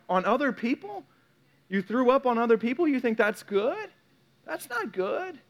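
high, incredulous questioning; mock disbelief. Preacher challenging someone who took it out on others, mock disbelief.

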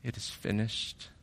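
hushed, low retold last words; very quiet. Preacher voicing Jesus' words as John hears them, very quietly. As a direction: let it drop almost to nothing.

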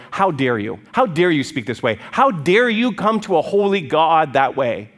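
stern, building indignation; indignant rebuke. Acted. Friends scolding Job for his speech to God, indignant rebuke. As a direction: rebuke that slows and swells at the end.

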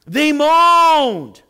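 loud, high, long drawn-out moan; mock moaning. Preacher mocking the complaining Israelites, exaggerated moan. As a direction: stretch the word into a wail.

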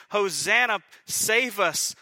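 loud, high cry for rescue; crowd shouting. Retold or imitated. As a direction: call out like the crowd. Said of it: "The crowd shouts accolades".

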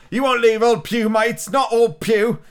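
put-on high, loud pleading old pirate; desperate pirate plea. A narrator's reading. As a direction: beg them not to leave you. Pew begging his deserted comrades.

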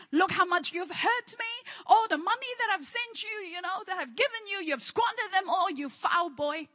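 mild scolding, acted out; a touch of hurt reproach; mock angry father. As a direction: play a resentful father telling off his son. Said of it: "He was not angry. He was not resentful".

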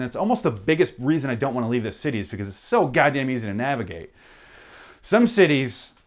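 ordinary talk, nothing marked

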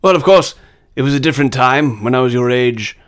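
lightly voiced wise old Brit; a hint of a lofty British mentor; mild Hopkins impression; Anthony Hopkins. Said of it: "you, Anthony Hopkins".

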